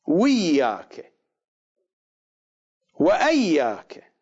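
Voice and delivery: وياك and وأياك drawn out slowly; variant reading. Shown as a demonstration. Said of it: "يقرؤونها". (وياك ثم وأياك ببطء)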